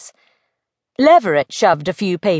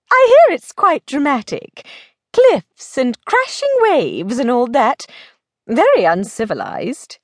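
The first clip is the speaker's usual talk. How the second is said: higher, animated lady; lively lady friend; 4 semitones higher than usual. Acted. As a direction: lightly play a lady passing on dramatic hearsay. Plays Belle describing Cornwall.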